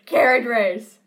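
carriage race shouted out loud; excited shout. Real, not acted. Two friends recalling a scene, excited shout. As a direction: yell it with sudden glee.

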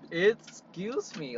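slow, drawn-out indignant "Excuse me". Shown as a demonstration. Repeating the phrase to a rude guest, slow indignant "Excuse me". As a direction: stretch "Excuse me" out slowly, offended. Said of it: "repeated excuse me".

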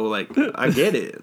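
normal talking voice

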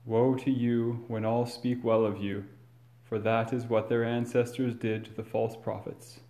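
measured, solemn proclamation; formal gospel reading. Acted. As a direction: read it like scripture at Mass.

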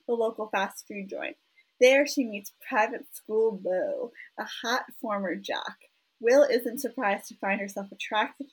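lightly put-on Southern accent reading a book blurb; hint of a hammy Southern twang; fake Southern accent. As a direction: read it out with a playful Southern lilt. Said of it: "a fake Southern accent".

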